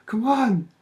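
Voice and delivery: high, pumped-up repeated cheers; mock victory yells, pitch way up; retold hyped shouting. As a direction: re-enact roaring yourself on to the finish. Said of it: "Started shouting".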